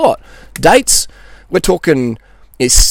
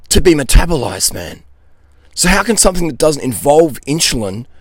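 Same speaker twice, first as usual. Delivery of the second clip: frustrated; 5 semitones higher than usual. Real, not acted. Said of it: "I'm, I'm getting frustrated".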